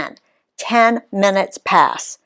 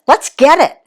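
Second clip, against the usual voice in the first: excited; 8 semitones higher, 6 dB louder than usual. A narrator's reading. Eager kid cheering.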